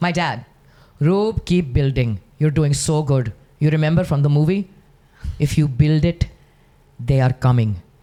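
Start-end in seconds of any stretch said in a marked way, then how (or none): 1.0-7.8 put-on Pakistani accent, louder. Giving a requested sample, quoting her dad in a Pakistani accent. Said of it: "give us a little sample".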